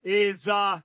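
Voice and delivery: drawn-out Texan drawl with long pauses; mock Southern Texan drawl, phrase by phrase. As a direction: imitate a Texan shot caller spelling it out. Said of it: "with that Southern Texan drawl".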